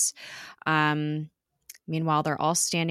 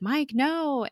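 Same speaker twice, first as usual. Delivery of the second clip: mock plea in a raised pitch; retold plea; 9 semitones higher than usual. Skye calls after Mike as he leaves, high retold plea.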